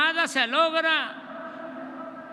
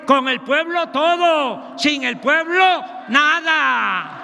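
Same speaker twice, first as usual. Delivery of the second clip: booming balcony speech; 4 dB louder than usual. Acted. Quoting Juárez at a rally.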